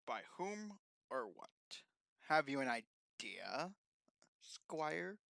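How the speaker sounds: hushed. Acted. The speaker in character, hushed.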